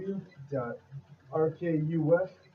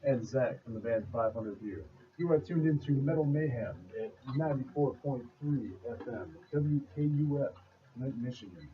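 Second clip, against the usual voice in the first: radio voice. Acted. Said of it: "are you doing that radio voice".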